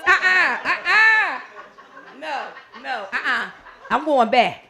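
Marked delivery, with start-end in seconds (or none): 0.1-3.5 mock whimper. Two hours horror.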